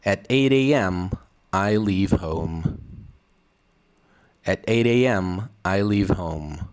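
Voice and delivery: slow, careful model reading for students to repeat; slow read-aloud. Shown as a demonstration. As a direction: read each line slowly and clearly as a model. Teacher reads sentences for repeating.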